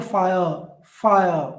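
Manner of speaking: "fire" strong at the start, weak at the end; drawn "fi", fading final sound in "fire"; stress on first part. Shown as a demonstration. Teacher showing the reverse of iamb, "fire" stressed at the start. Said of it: "This E is unstressed".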